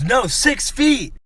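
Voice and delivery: high, drawn-out imitation of an insistent old lady; mock yelling. Old lady correcting the shopper who misunderstood, mock yelling. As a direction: stretch it slowly and high, mimicking her protest. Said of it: "she starts yelling".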